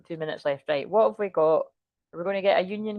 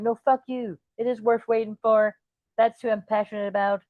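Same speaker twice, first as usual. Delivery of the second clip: put-on American accent. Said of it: "I don't know why I'm talking American".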